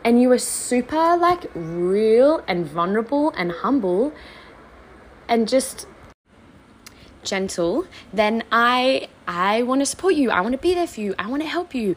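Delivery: lightly voiced Brad, begging her to open up; husband pleading. Husband asking wife to come to him, earnest plea. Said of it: "And Brad was like".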